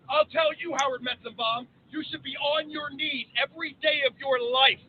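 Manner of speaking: rising oratory, building to outbursts; formal speech. Acted. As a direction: deliver it like a senator on the floor. Recites a patriotic speech.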